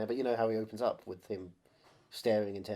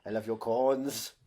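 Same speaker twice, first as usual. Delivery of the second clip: hammed-up action hero; 7 dB louder than usual.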